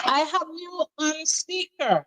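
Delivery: on speakerphone; distant speakerphone call; phone speaker. Real, not acted. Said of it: "Take me off the speaker".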